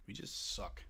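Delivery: under-the-breath whisper of defeat. Real, not acted. Gamer muttering about his losing team, whispered. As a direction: drop to a whisper.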